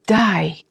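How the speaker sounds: "די" drawn out as a stunned no way; long, disbelieving "די"; disbelieving intonation. Shown as a demonstration. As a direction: stretch "די" in disbelief, not as a command. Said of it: "Pay attention to my intonation".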